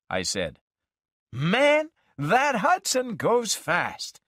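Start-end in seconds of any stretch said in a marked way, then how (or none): 1.3-4.2 a lightly played road-weary buddy; Dean, breezy. A narrator's reading. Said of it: "he said".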